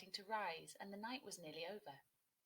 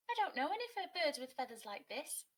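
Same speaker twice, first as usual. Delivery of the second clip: high, loud chirpy woodpecker; 7 semitones higher, 6 dB louder than usual. A narrator's reading. Woodpecker answering Kia, high and loud.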